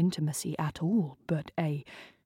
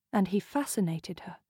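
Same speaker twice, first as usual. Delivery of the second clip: plain reading voice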